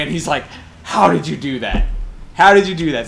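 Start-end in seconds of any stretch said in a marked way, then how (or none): 2.3-3.1 louder, pressing repeat of the question; mock Swedish guy asking again, amazed. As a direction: ask it again, louder and more insistent. Swede asks again, amazed.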